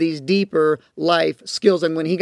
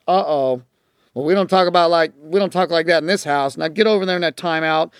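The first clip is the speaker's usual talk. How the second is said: stern scolding. Shown as a demonstration. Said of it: "like all the behavior modifiers tell you".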